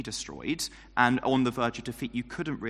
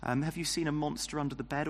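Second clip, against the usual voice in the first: put-on higher, softer, cooing at a scared child; mock-sympathetic baby talk, lightly done; condescending parent; 3 semitones higher, 5 dB quieter than usual. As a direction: talk down like a parent to a frightened toddler. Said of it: "like how a parent might ask a child".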